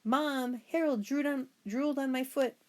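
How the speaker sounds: put-on high, loud tattling kid; a boy whining to his mother about the dog; whiny complaint. A narrator's reading. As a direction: tell on the dog to Mom.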